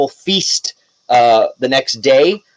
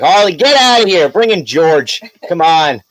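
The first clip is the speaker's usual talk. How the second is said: raised, louder playful outburst; mock demanding call; 4 semitones higher, 3 dB louder than usual. Host jokingly sends a player off for George Clooney, mock demanding.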